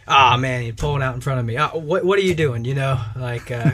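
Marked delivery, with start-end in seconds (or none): 0.1-2.6 loud, exasperated griping at the car cutting in; mock angry driver. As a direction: rant like a hothead behind the wheel. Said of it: "they constantly engage in the traffic talk".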